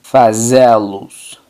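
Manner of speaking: Fazê-los as fa-ZE-lus, slow and clear; Portuguese answer. Shown as a demonstration. Teacher answers own drill question, slow model answer. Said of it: "¿Cómo se diría hacerlos?".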